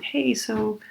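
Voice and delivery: hesitant, polite customer voice. Retold or imitated. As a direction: tread gently with the server. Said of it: "I'm being polite".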